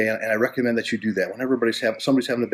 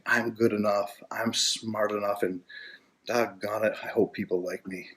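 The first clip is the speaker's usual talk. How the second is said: mocking Stuart Smalley; 7 dB quieter than usual. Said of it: "like Stuart Small where you're saying".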